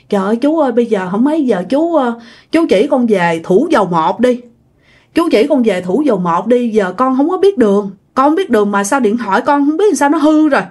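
mild retold pleading. Lost traveller begs the man for a way home, mildly pleading. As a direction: imitate someone begging for help. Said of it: "Bạn mới năn nỉ quá trời".

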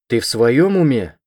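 loud, slow, stunned outburst; stunned, indignant cry; taken aback. Acted. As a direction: blurt it out, shocked and loud. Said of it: "опешил мужчина".

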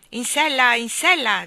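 loud, high call to mount; ticket man shouting. A narrator's reading. Ticket man calling everyone into the saddle. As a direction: call the riders aboard. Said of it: "gridò il bigliettaio".

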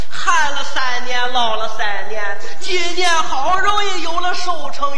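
hot Shandong-style shouting; shouting match. Acted. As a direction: bellow it like arguing. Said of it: "这种火爆热烈的语气".

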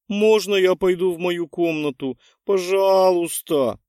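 put-on girl faking hysteria to win pity; hysterical plea. A narrator's reading. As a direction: whimper like a beaten puppy. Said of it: "придав своему тону истерические нотки".

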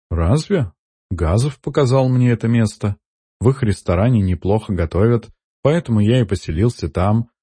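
mildly puzzled, casual; slightly surprised. Acted. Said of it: "слегка удивлённо ответил Сайтама". (слегка удивлённо)

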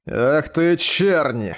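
sharp angry yell at the enemy; angry outcry. Acted. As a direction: curse him out mid-fight. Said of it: "прозвучал выкрик".

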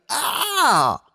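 high pained yell; sharp cry of pain. Acted. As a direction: cry out as the back gives way. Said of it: "Вскрикнув".

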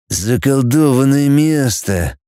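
slow muttered grumble through teeth. Acted. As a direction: draw it out slowly through gritted teeth. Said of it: "процедил рыжий". (медленно процедить сквозь зубы)

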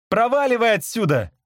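high, angry dismissal; mild shout. A narrator's reading. Nick drives the bird away, shouting. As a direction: cry out to chase it off. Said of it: "закричал мне Ник".

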